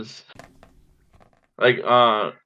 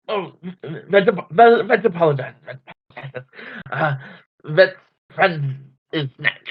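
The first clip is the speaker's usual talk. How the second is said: Vet laughing in character; 5 semitones higher than usual. Acted.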